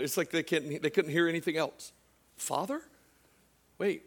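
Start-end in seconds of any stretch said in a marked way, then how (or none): 2.4-4.0 soft, mildly disbelieving question; stunned question. Retold or imitated. Acting disciples who heard God called Father, hushed surprise. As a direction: let it rise quietly, as if taken aback.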